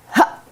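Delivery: tight pressed ha, too much closure. Shown as a demonstration. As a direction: squeeze the ha shut hard. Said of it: "If we have too much closed quotient".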